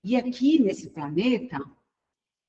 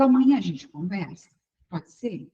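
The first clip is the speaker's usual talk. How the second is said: docile. Retold or imitated. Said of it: "eu falo dócil".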